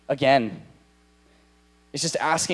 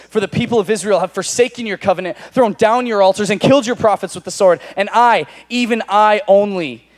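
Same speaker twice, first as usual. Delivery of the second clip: bitter complaint; 4 semitones higher, 5 dB louder than usual. Acted. Elijah's bitter complaint read.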